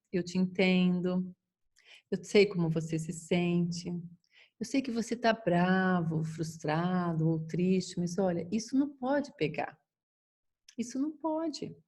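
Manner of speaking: calm understanding. Shown as a demonstration. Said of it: "existem algumas frases que podem ajudar".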